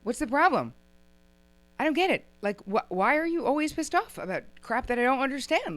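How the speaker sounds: loud, high-pitched acted outburst; exasperated blow-up. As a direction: play a fed-up partner finally blowing up. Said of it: "act out your feelings of aggression".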